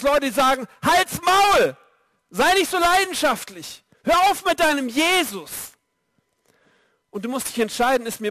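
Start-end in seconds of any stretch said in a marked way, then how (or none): 0.8-5.7 high, loud scornful rebuke. Retold or imitated. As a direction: shout him down with contempt. People mocking, silencing believer.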